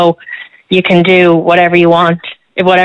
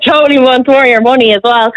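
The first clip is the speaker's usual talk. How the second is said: laughing; 5 semitones higher than usual. Real, not acted. Repeats line while still laughing.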